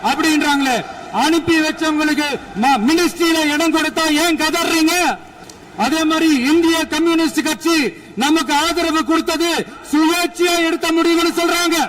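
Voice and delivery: high, loud rebuttal; fiery oration. Real, not acted. Leader rebutting rivals in the assembly, high and loud. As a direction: press the point on the rivals.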